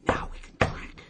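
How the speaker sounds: put-on a drunk cheering once the family has gone; gleeful inner shout. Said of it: "inside he's going".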